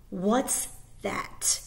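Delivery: slow, loud and tight; suddenly suspicious, drag it out; tense question. Acted. Soldier spotting something in the basket, tense. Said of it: "he asked in a different, tenser voice".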